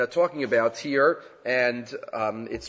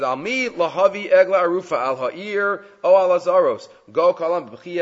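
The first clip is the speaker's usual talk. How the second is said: light mock lament; 3 semitones higher than usual. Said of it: "he's, he's crying".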